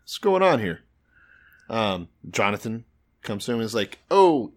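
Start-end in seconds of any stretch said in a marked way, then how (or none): 0.0-0.8 raised, higher mock-annoyed demand; annoyed king calling out, higher pitched; pissed. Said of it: "So now he's kinda pissed". 4.1-4.5 caught-out oh. Acted. Jonathan voiced answering his dad.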